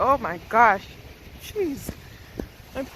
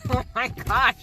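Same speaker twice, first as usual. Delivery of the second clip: normal talking voice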